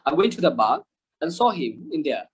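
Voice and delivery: British non-rhotic "bar" and "there"; British silent R. Shown as a demonstration. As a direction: drop the R's, British style, spoken slowly. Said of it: "ব্রিটিশরা কিন্তু সবচেয়ে কম আর উচ্চারণ করে". (British ঢঙে র বাদ দিয়ে)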